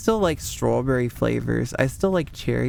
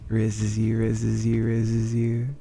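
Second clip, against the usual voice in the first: sultry voice; 2 semitones lower, slower than usual. Shown as a demonstration. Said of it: "My voice is sexier these days".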